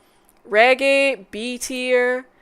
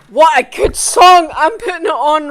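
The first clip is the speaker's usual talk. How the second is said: loud, raised-pitch enthusiasm; excited praise; 5 semitones higher, 11 dB louder than usual. Real, not acted. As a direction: exclaim it with real excitement. Raving after singing it.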